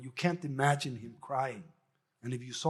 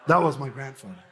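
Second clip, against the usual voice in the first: laughing; 5 dB louder than usual. Real, not acted. Laughing after the joke.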